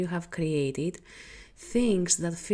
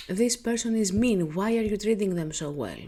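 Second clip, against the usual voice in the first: mildly scolding, raised voice; judging inner voice; 2 semitones higher, 3 dB louder than usual. Acted. Inner voice questions an overgiver's kindness, mild reproach. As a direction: challenge them like a nagging conscience. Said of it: "an inner voice that tells you to stop".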